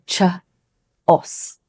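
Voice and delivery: chaos said CHUH-os with a CH; learner mistake. Shown as a demonstration. Teacher imitates another wrong chaos.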